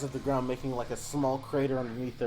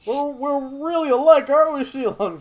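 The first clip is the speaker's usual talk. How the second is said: much higher, loud character voice; Harada; 13 semitones higher, 11 dB louder than usual. Acted. Harada needling Shilong across the fight, high and loud. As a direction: call it out teasingly in a hammed-up high voice. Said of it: "says Harada".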